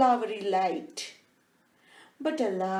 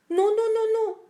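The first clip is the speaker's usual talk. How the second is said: excited; 11 semitones higher, 6 dB louder, much faster than usual. Acted. Mouse excited about smelling cheese.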